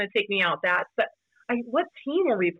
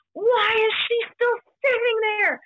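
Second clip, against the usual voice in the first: mocking the second baseman; 14 semitones higher than usual. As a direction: play the baffled rival sounding put-upon. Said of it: "the second baseman on his team was like".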